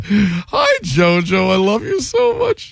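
a sing-song lovestruck caller voice; mock Jacob greeting. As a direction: coo it like an adoring boyfriend. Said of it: "I expected a".

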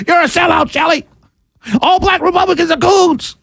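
mock yelling. Host mimicking critics yelling at him, mild mock yell. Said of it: "just yell and scream".

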